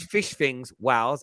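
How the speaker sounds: "wows" for whales, the L turned to a W. Shown as a demonstration. Host showing colleague the sea animal, whales said as "wows". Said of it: "Just how I talk".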